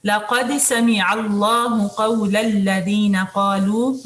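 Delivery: slow melodic tajweed recitation; Quran recitation. Shown as a demonstration. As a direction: chant the verse slowly and evenly.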